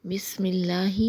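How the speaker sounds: اللہ with a light, thin lam; اللہ kept light, not full-mouthed; thin Allah. Shown as a demonstration. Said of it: "لفظ اللہ کو باریک پڑھیں گے".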